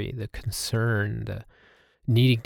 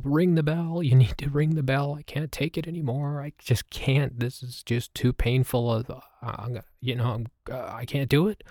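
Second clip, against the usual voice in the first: higher, pleading little cartoon voice; cartoon knee voice; 3 semitones higher than usual. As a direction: play his aching knees begging like a cartoon. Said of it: "my knees began to talk in a cartoon voice".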